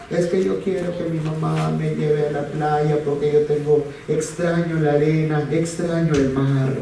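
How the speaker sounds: lightly voiced whiny child, pleading; a hint of a sobbing little boy; imitating crying son. Father retelling how his son begged through tears, mild whiny child voice.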